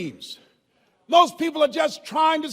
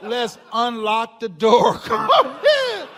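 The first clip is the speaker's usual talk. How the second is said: coaxing invitation; 4 dB louder, slower than usual. Retold or imitated. Coworkers coaxing him inside.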